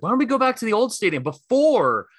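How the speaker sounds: imitated fired-up Philly passion, pitched high; a rapper. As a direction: retell the rant with heated challenge. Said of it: "let his Philly passion jump out".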